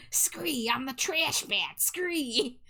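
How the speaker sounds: light squeaky mock of the streamer; a hint of a goofy creature call; trash man voice. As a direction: imitate the fans' silly impression. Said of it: "they take on this voice and they go".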